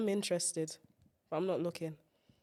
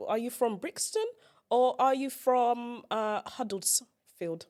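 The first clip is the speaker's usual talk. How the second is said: questioning accents; 4 semitones higher, slower than usual. Shown as a demonstration. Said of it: "But it's the oi".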